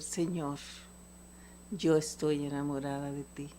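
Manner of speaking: low, softened words of devotion; hushed, loving prayer; tender prayer. Acted. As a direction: confide it softly to the Lord. Tender prayer declaring love to God.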